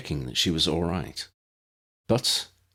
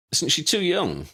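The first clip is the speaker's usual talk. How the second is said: higher, doubtful question; doubtful Ron; 10 semitones higher than usual. A narrator's reading. Ron doubts Lydia's age, higher and doubtful. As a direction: ask it with doubt.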